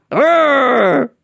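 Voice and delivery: high, drawn-out mock growl; exasperated growl. Ugly American fuming at the woman, mock growl.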